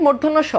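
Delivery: careful "mur-dhon-no sho" for মূর্ধন্য স; correct pronunciation. Shown as a demonstration. Teacher answers own question on how it is pronounced, careful pronunciation. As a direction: sound out মূর্ধন্য স with its r and dh. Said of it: "এটার উচ্চারণ কি?".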